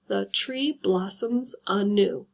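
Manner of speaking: slow, syllable by syllable; checking that the line has five; counting syllables. Shown as a demonstration. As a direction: count the five beats out slowly. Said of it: "So there you go at five".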